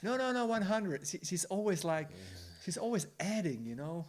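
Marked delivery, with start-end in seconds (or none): 0.0-1.1 higher, louder insistent wife; stubborn contradiction. Retold or imitated. Wife correcting husband's speed upward, stubborn contradiction. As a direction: overrule him, raised and emphatic.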